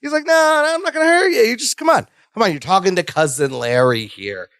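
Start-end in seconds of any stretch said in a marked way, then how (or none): 0.2-2.1 high-pitched fake-friendly coaxing; put-on friendly. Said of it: "He's trying to be all friendly". 2.3-4.5 lower, fake-chummy coaxing; put-on friendly. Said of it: "He's trying to be all friendly".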